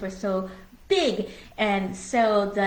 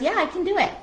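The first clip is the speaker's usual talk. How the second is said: doctor's reply; 10 semitones higher, 3 dB louder, much faster than usual. Retold or imitated.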